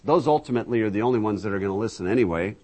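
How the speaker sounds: ordinary delivery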